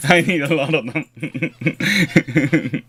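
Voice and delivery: slow, laughing through the words. Real, not acted. Streamer admitting he needs many shelves, laughing. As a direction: giggle as you admit it.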